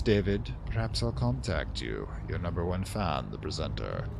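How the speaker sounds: theatrical letter read with big swells and hushed drops; dramatic reading. Acted. The presenter's letter read aloud to David, dramatically. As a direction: read it like an old radio drama villain. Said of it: "I like to be dramatic sometime".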